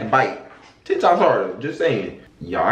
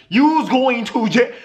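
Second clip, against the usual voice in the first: slowed, laughing shout; laughing, shouted jail verdict; 4 semitones higher than usual. Real, not acted. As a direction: deliver the sentence while cracking up. Verdict on the sixteen-year-old.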